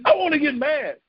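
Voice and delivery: a touch of a pouting, whiny wail; mock whine. Preacher mocking his own football sulk, whiny. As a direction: whine it like a sulky kid. Plain then whined repeat.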